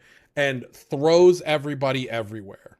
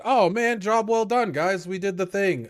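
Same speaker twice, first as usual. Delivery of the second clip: mock cheery heroes; 6 semitones higher than usual. Characters congratulating themselves.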